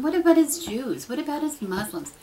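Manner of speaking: usual speaking voice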